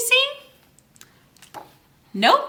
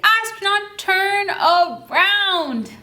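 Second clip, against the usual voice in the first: long, drawn-out call across the distance; slow drawn-out call; 5 semitones higher, much slower than usual. Shown as a demonstration. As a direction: stretch around out very slowly.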